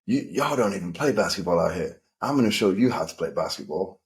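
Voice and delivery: lightly mocked American accent; a rough attempt at an American accent; bad American accent. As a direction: imitate an American talking down, badly accented. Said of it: "Sorry about the terrible American accent".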